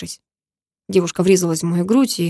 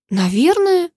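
indignant moaning echo; 9 semitones higher, slower than usual. A narrator's reading. Karina echoing the hero's vague answer, moaning in disbelief. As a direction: throw his word back at him, outraged and whiny. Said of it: "простонала Карина".

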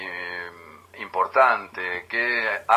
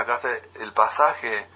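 slow, plain "¿Sacaste el pasaje?"; proper version; slower than usual. Shown as a demonstration. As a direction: model the correct Spanish word calmly and slowly. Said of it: "En vez de".

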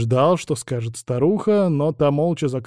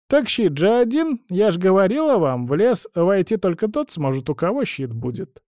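put-on higher, fussy old crone voice; old woman; 7 semitones higher than usual. A narrator's reading. Old woman instructs travellers about the spindle, high crone voice. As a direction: chatter on like a meddling old woman.

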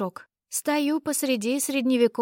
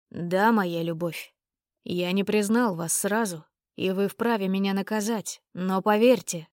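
contrite; 3 semitones lower than usual. Acted. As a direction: apologize humbly. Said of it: "сокрушённо вздохнул".

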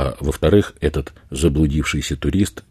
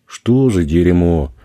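indignant; 3 semitones higher, 6 dB louder, slower than usual. A narrator's reading. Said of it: "возмутился Эдди".

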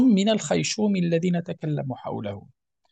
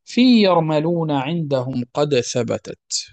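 verse recitation. Acted. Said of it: "قال بعد أن قال".

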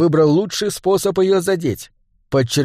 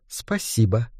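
soft, politely cold thanks; a quiet courteous thank-you; 4 semitones lower, 6 dB quieter, slower than usual. Acted. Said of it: "вежливо поблагодарила". (вежливо, тихо)

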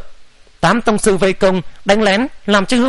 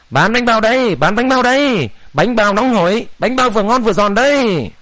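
lilting vendor's cry; singsong street hawker call; 3 semitones higher than usual. Acted. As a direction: sing out the bun sales. Street bun seller calling out.

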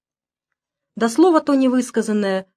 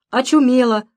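a touch of joy in the agreement; gladly agreeing; 3 semitones higher than usual. Acted. Anka gladly agrees with the grumpy neighbour, a touch of joy. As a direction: say it glad, almost laughing. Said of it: "радостно соглашается Анка".

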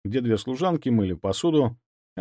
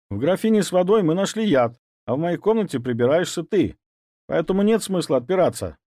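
higher, insistent interrogation; pressing hard; 8 semitones higher than usual. Acted. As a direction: keep pushing him to confess. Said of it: "наседал Ваня". (напористо)

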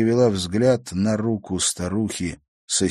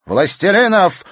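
put-on wicked old woman; 12 semitones higher, 8 dB louder than usual. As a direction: lay out the order with menace. Villain proclaims masters.

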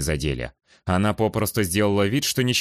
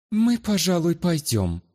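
sour; 10 semitones higher, slower than usual. Acted. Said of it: "кисло выдавила из себя Луана".

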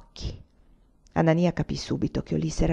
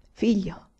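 hushed, secretive. A narrator's reading. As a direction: confide it under your breath. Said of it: "a bassa voce, quasi in segreto".

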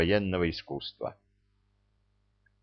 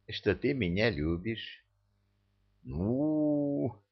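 soft coaxing; 3 semitones higher, 7 dB quieter, slower than usual. A narrator's reading. Coaxing confession of love.

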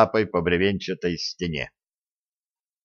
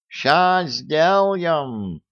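mock yell; 7 semitones higher, much slower than usual. A narrator's reading. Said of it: "заорал кот".

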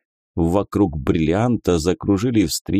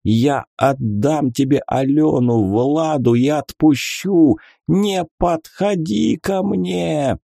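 panicked pleading; 7 semitones higher than usual. A narrator's reading. God panics, begs wizard.

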